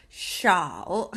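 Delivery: 샤오 drawn out very slowly, syllable by syllable; slow model syllable. Shown as a demonstration. Teacher modelling 샤오 slowly for viewers to repeat. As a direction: stretch 샤오 out for learners to copy. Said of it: "시오샤오 같이 해볼게요".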